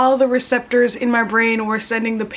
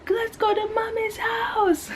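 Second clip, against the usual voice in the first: put-on high, slow, childlike whine; mock whimpering plea; 14 semitones higher, slower than usual. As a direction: beg like a tearful little kid, half-joking. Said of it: "I was just crying and screaming".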